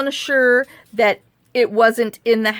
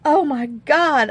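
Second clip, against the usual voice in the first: exasperated; 4 semitones higher, slower than usual. Retold or imitated. Ryan's exasperation acted out.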